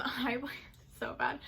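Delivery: laughing through the words; sheepish laugh at her own fib. Real, not acted. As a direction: giggle while admitting it.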